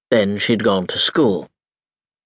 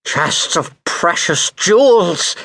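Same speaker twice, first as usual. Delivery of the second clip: cried out; 5 semitones higher, slower than usual. A narrator's reading. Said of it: "cried Pelf".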